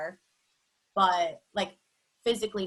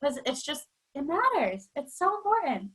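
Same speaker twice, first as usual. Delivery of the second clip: on the edge of tears. Real, not acted. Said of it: "on the edge of tears".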